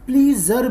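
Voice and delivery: "प्लीजर" said with a long ee and a z; mispronounced pleasure. Shown as a demonstration. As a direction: say "प्लीजर" as plee-zer, the common mistake. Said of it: "बहुत से लोग इसे प्लीजर बोलते हैं".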